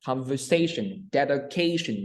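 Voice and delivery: "Conversation, dedication" with SA and CA stressed; stress before -tion. Shown as a demonstration. Teacher repeats examples for learner, stress before -tion. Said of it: "nhấn vào cái âm trước đó".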